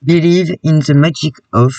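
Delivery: slow careful English read with a French accent; reading the card's English slogan with a French accent. Real, not acted. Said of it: "Vous m'excuserez mon accent".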